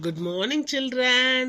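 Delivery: drawn-out classroom greeting, rising on the last word; teacher greeting class. Acted. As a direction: call out to a class of children.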